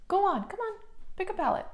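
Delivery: high sing-song pet talk; dog voice. Real, not acted. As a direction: coo at the dog, high and sweet. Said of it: "I do use my dog voice in this video".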